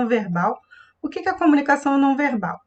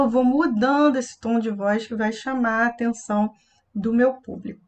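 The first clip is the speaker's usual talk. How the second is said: ordinary talk, nothing marked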